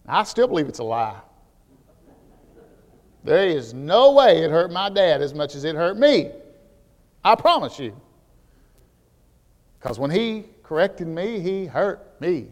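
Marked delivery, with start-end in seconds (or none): none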